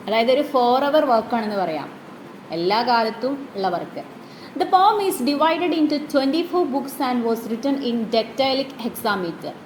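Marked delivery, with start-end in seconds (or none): 4.6-9.5 reading the English text very slowly for notes; measured classroom dictation. Shown as a demonstration. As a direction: read it out slowly so the class can write it down.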